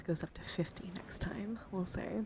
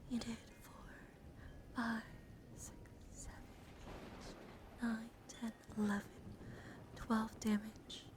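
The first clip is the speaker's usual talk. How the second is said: very soft, halting count; hushed tallying, barely voiced; counting to oneself; 2 semitones higher, 11 dB quieter than usual. Real, not acted. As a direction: count under your breath, pausing between numbers. Counting up damage to herself.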